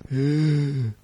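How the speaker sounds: wheezy rasping zombie gasp. Pretend. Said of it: "That's my zombie impression".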